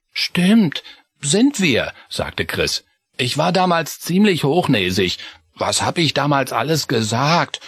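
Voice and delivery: put-on high, rueful child voice; sheepish mouse boy; high young mouse Chris. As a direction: own up to your old snobbery.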